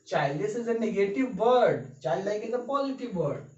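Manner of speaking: very slow, word by word; slow dictation. Shown as a demonstration. Teacher dictating a definition to students, very slowly. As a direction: spell it out slowly for notes. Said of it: "teacher dictating slowly".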